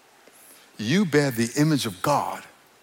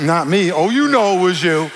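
rising, louder mock accusation; teasing callout; 3 semitones higher, 5 dB louder than usual. Preacher to congregation who deny it, teasing callout. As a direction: tease them loudly for fibbing. Playfully calls out denying congregation.

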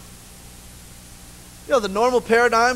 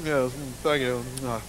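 low, softer, contented murmur; lightly voiced satisfied wife; pleased wife; 8 semitones lower, 7 dB quieter than usual.

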